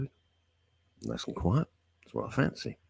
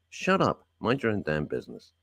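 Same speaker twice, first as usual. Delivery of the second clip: exasperated; 3 dB quieter than usual. Real, not acted. Ranting at celebrities.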